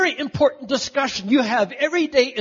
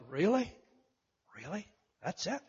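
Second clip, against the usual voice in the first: softer and softer, let down, in disbelief; disappointed; 8 dB quieter than usual. Retold or imitated. Visitor seeing the Jordan River for the first time, quietly let down. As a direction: deflate with each word as the hope drains out. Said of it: "I was actually disappointed".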